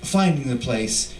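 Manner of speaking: measured, solemn reading of a poem; poetry reading. Acted. Poet reading to an audience, solemn poem voice. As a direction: let each line settle, grave and slow. Reads his own poem aloud.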